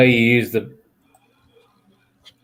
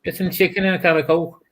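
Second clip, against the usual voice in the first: mock Scouse; 3 semitones higher than usual. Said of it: "are you getting lessons here".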